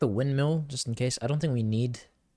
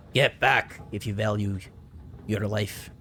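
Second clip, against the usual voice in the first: bad Irish-Scottish brogue; a clumsy Scottish-Irish accent; slower than usual. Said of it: "That's a horrible Irish, Scottish accent".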